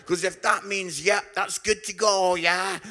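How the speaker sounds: worried thought. Retold or imitated. Anxious inner thought, louder.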